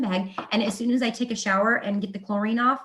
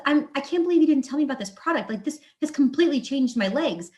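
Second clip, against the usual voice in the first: excited mother-in-law; 5 semitones higher, faster than usual. Retold or imitated. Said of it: "And she says".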